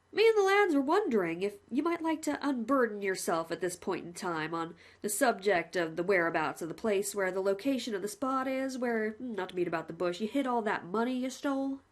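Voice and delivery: lightly voiced cheerful jailer; a hint of a chummy warden; a plain-spoken warder reporting to the condemned man, lightly voiced; polite prison warden. Warden asks.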